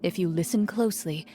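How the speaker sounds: measured storyteller scene setting; game master narration. Acted. Game master describing the ruins to her players, measured narration.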